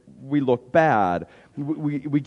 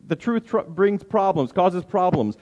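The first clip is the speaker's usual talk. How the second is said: brings problems, lifted higher and firmer; higher, brighter restatement; 5 semitones higher than usual. Acted. Preacher repeating his point, higher and firmer. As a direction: brings problems, pitched up with a firm fall.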